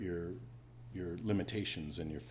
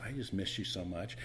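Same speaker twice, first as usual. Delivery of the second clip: tender; 2 semitones lower, 5 dB quieter than usual. Retold or imitated. Tender words to daughter.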